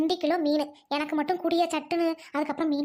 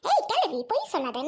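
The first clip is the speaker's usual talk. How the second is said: sharp challenge. Acted. Girl confronting old woman over stealing fish, accusing.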